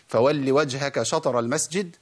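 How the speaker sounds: slow recitation with شطر read as a cut; recited verse. Shown as a demonstration. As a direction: recite it slowly as the wrong reading. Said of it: "زي ما بعض الناس بيقول". (تلاوة بطيئة بقراءة خاطئة)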